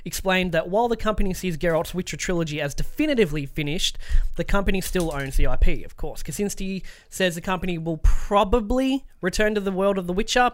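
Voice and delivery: scripted games-news read. Acted. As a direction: read the story out like a presenter. Reads out a news story.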